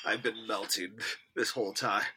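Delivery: sweltering and drained; overheated. Real, not acted. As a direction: talk like you're melting. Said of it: "I'm so hot".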